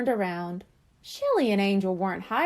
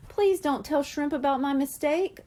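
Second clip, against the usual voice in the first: begging; 4 semitones higher than usual. Acted. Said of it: "Coral begged".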